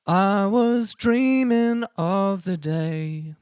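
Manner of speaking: sung with hard robotic auto-tune; full auto-tune. Shown as a demonstration. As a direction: sing it fully snapped to pitch. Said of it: "Let's try it at a hundred percent".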